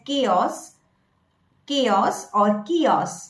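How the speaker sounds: "chaos" as kay-os, then kee-os; accepted variants. Shown as a demonstration. Coach allowing both forms, accepted variants. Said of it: "you can even pronounce it as".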